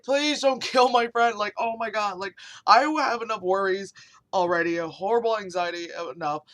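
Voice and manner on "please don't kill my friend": higher, louder, drawn-out mock begging; retold plea. Host begging police to spare a friend, mildly panicked plea. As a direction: plead slowly, half-playing the panic.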